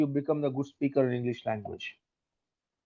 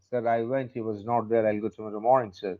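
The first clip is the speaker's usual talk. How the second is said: lower-pitched Indian English accent; plain Indian-accented English to a sir; 4 semitones lower, 3 dB quieter, slower than usual. Shown as a demonstration. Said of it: "like Indian". (భారతీయ English యాస)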